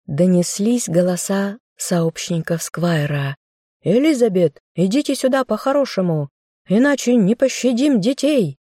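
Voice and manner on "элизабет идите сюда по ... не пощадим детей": high, forceful shout; shouted threat. A narrator's reading. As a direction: yell the ultimatum, much higher. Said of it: "выкрикнул Джеральд".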